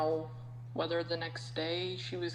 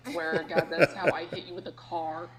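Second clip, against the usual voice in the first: laughing through the words, louder; 6 dB louder than usual. Real, not acted. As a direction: crack up mid-sentence. Laughing while joking about accident.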